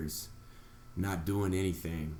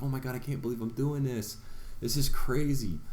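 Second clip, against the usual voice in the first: excited disbelief; 6 semitones higher than usual. Retold or imitated. First-time flyer at takeoff window, excited and amazed. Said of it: "and I'm like".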